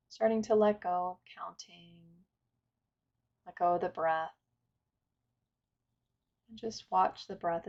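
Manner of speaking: calm, unhurried meditation guidance with long pauses; guided meditation. Acted. Teacher inviting listeners to settle and follow the breath, guided meditation. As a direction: guide listeners gently through breath and stillness.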